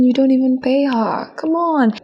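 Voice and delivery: "Come on" high and falling; high exasperated come on. Real, not acted. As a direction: drag out "on" in disbelief. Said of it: "repeated come on".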